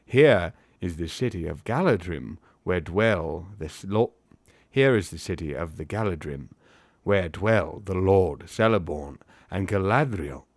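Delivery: put-on accent for a formal elf; Haldir. Elf presenting his city to guests, formal put-on accent. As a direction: declaim it slightly in a put-on accent. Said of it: "to say in this accent".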